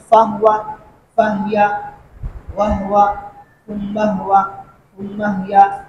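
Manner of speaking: فہوا فہیا وہوا ثم ہوا ثم ہیا, each ہ said with no vowel after it; teacher models the sakin ha in فہوا and ثم ہیا; silent-vowel ha demo. Shown as a demonstration. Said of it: "ہا کو ساکن پڑھتے ہیں".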